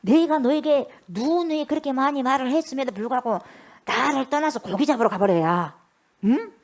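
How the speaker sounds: long exasperated mock tirade; acted scolding. Imagined Jesus scolding Peter for going fishing, exasperated. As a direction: pile up reproaches, building to a sharper finish. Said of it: "그렇게 나무랐어요".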